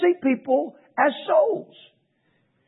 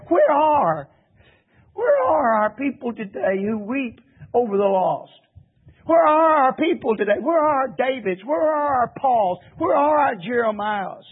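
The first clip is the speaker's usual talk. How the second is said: tearful plea. Real, not acted. Preacher pleads, voice breaking.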